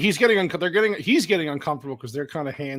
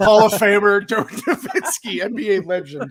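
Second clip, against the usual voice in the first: mock announcer; 3 semitones higher, 6 dB louder, slower than usual. Mock sports introduction amid laughter.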